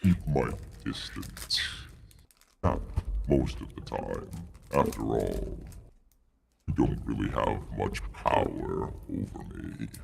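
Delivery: measured, haughty dragon voice; a lightly voiced proud dragon bargaining. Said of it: "dragon deep voice".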